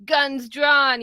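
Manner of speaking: high, laughing mock-British chuckle; mock laughing commentators. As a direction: laugh it off like a smug pundit. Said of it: "They were like".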